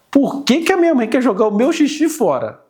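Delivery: a hint of a puzzled toddler asking; mild childlike whine; toddler's inner voice. Voicing the toddler's thoughts.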